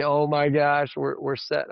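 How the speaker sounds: mildly excited mock reaction; a touch of imagined joy, lifted slightly; imitated happy relief. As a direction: briefly act out delighted relief. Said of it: "This is not a happy".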